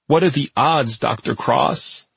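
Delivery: slow tearful voice; weeping. Acted. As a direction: choke the words out through tears. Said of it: "still weeping bitterly".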